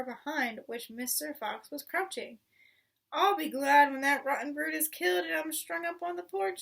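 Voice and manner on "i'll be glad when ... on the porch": louder, higher call across the house; woman calling upstairs from the cellar. A narrator's reading. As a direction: call it up the steps. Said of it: "she called out".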